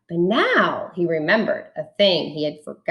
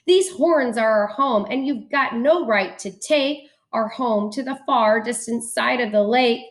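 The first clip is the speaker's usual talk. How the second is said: protesting guests; 5 semitones higher than usual. Acted.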